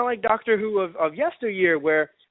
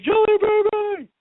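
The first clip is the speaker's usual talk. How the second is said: high, drawn-out fangirl squeal; freaking out; 14 semitones higher, 4 dB louder, slower than usual. Retold or imitated. Fan reliving the episode, high slow squeal. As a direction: squeal it slowly in pure glee. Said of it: "I'm just freaking out".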